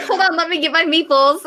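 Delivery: giggling, high and playful; laughing through words. Pretend. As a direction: laugh while saying it. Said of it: "I'll be like".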